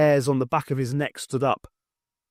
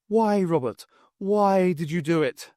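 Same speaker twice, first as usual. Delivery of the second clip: Highland woman; 5 semitones higher than usual. Acted. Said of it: "the distinctive Highland accent".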